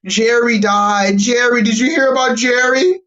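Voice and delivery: high, excited gossiping voice; hammed-up gossip, pitch jumping up; mock gossip. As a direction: play the breathless gossip spreading news. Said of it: "everybody, uh, feels Jerry Springer".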